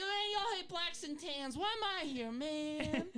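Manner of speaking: put-on high-pitched caricatured Black American accent. Comic playing an Irishman, in a Black American accent. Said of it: "can you do a black accent of someone".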